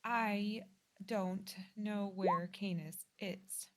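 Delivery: slow, halting admission; understated, near-tearful daughter; fighting back tears. Acted. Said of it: "she's fighting back tears".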